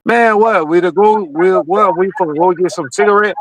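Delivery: a light, breezy imitation of an African accent; a buddy inviting you out, mild African accent; mock African accent. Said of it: "with the African accent".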